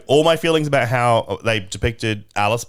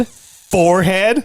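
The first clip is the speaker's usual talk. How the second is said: higher, louder and slower "My forehead?" in an Australian accent; mock Australian accent; 8 semitones higher, 4 dB louder, slower than usual. Shown as a demonstration. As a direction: keep the put-on Australian voice going. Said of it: "Doing a lot of nose work".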